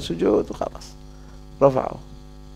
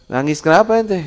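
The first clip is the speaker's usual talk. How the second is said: high, louder question from the angel of death; angel of death asking; 8 semitones higher, 4 dB louder than usual. Retold or imitated. Angel of death asking the crying rich man, high and louder. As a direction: ask him why he weeps.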